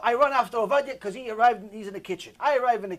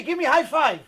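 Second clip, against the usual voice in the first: put-on toddler voice; 6 semitones higher, 4 dB louder than usual. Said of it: "He's telling me".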